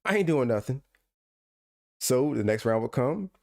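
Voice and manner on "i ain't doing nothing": innocent denial. Retold or imitated. Opponent's innocent denial retold.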